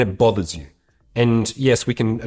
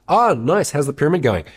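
high, exaggerated fake approval; sarcastic passive aggression; 5 semitones higher than usual. Housemate remarking on a dish pyramid, sarcastic. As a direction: feign delight to needle them. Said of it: "Sarcasm, passive aggressive".

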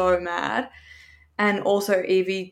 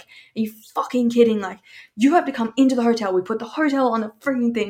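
mildly raised, indignant phone rant; retold yelling; 3 semitones higher, 4 dB louder than usual. Retelling her argument with the delivery driver, mild mock yell. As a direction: tell him off, a little higher and quick. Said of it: "yelling at him on the phone".

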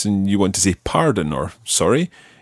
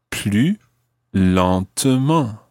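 slow model word; much slower than usual. Shown as a demonstration. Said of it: "the phrase for more slowly".

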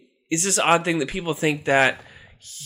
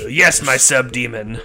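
lordly villain; 3 semitones lower, 5 dB louder than usual. Acted. Satan answers grandly.

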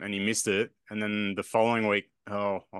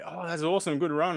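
fake cheerful praise; 8 semitones higher than usual. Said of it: "And I'm like".

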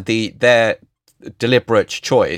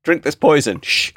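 lightly mocked, high hushing crowd; hushing Athenians; 7 semitones higher than usual. Athenians silencing Socrates before the poison, playful hushing. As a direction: jokingly shush him between higher-pitched phrases.

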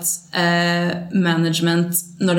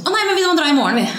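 mock sugary goodbye; 10 semitones higher, 4 dB louder, much faster than usual. Acting their sugary goodbye line.

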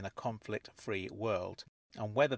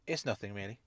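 quiet, slightly softer reply; 6 dB quieter than usual. A narrator's reading. Narrator hesitating over a question to Miss Angel, quiet. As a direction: say it quietly, playing it down. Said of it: "I said quietly".

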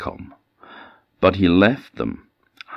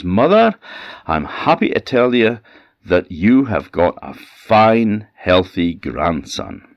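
beaming announcement; 5 semitones higher, 5 dB louder than usual. Acted. Miller bursts in grinning to tell his mother, high and loud. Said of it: "with a big smile on his face".

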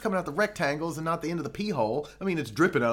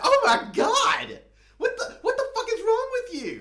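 shocked bloke; 5 dB louder than usual. Retold or imitated. Man at the urinal reacting to the cage, shrieking high. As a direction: play a stranger horrified at what he sees.

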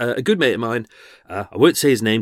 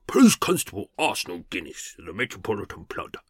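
lightly voiced plodding English bobby; a hint of an old-fashioned copper introducing himself; 5 semitones lower than usual. Character introduces himself, lightly voiced old-fashioned copper. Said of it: "obviously he doesn't sound like that".

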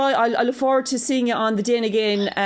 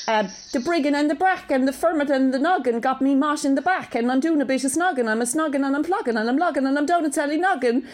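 put-on Cork accent; 3 semitones higher than usual. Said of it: "do it in my Cork accent".

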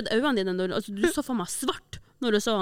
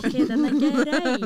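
meek giving in; 4 semitones higher, 4 dB louder, much slower than usual. Retold or imitated. Retelling her own meek reply.

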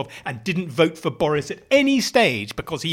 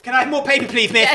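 high, eager schoolkid asking miss; higher, louder mock schoolchild; mock pupil; 8 semitones higher, 5 dB louder, faster than usual. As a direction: play the keen pupil begging for paper.

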